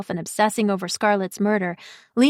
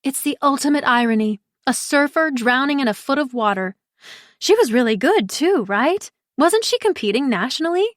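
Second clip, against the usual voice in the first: lively Pri; 5 semitones higher than usual. Acted. Pri musing about the case.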